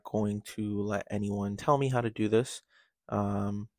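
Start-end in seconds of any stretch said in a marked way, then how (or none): 3.1-3.7 burp. Real, not acted. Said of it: "sorry, I just burped".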